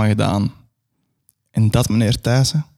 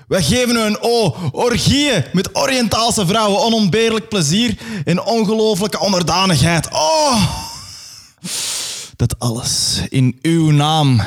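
much higher, rapturous crowd chant; ecstatic crowd; 8 semitones higher than usual. Acted. The crowd answers Yoshi, high rapturous chant. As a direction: swoon as the adoring crowd. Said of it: "En ze roepen terug".

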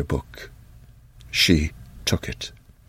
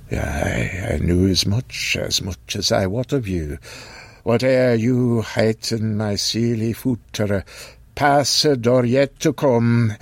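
lightly voiced archaic old man; old man Occam; 5 semitones higher than usual.

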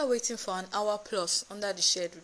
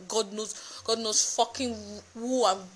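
stumbling, restarting words in exasperation; annoyed stammering. Real, not acted. Woman ranting about being left waiting at the junction, stammering with annoyance. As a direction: trip over the words in real annoyance. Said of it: "I'm so annoyed I'm actually stammering".

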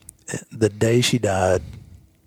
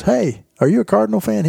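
lightly raised, high-pitched call; mild mock yell, pitched up high; retold yell; 10 semitones higher, 3 dB louder than usual. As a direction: imitate someone calling out to a stranger. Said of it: "she yells at my son".

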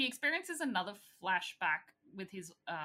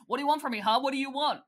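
louder, demanding shout; mock yelling; 4 semitones higher, 6 dB louder, faster than usual. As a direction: yell at the fridge in mock rage. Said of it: "And he's like".

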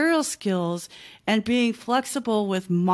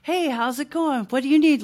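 higher, louder, friendly client greeting; eager helpful greeting; 5 semitones higher, 4 dB louder than usual. Acted. Secretary greeting a client, eager and helpful. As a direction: greet them ready to help.

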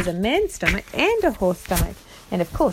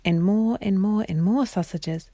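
expressive bedtime story narration; measured storyteller voice; reading to children. A narrator's reading. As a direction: read it aloud as a storybook for children. Reads story aloud to children.

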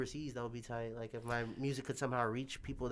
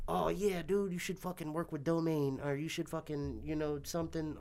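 higher-pitched mock-enthusiastic advice; imitating fans; 4 semitones higher than usual. Rapper mimicking people who suggest collaborations, higher mock enthusiasm. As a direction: imitate an eager fan offering tips.

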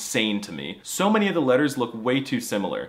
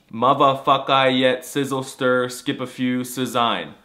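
drawn-out long word; slower than usual. Shown as a demonstration. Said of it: "the average word in Turkish".

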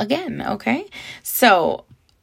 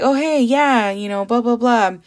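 breezy, offhand phone talk pitched higher; lightly voiced careless son on the phone, higher and breezy; mock nonchalant; 4 semitones higher than usual. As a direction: imitate a guy shrugging off bad news, casual and higher. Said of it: "Very nonchalant".

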